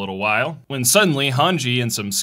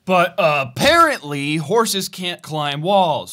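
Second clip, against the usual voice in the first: slow, drawn-out deadpan delivery; 5 semitones higher, 3 dB louder, slower than usual. Real, not acted. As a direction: spell it out slowly, deadpan. Deadpan mock explanation.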